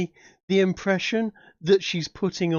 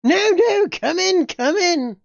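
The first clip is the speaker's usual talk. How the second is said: much higher and louder, eager crone; eager hag voice; 12 semitones higher, 6 dB louder, slower than usual. Acted. Eager lady waving the party inside, high and squawky. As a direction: squawk the welcome like an old hag. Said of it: "Okay, she sounds like a hag".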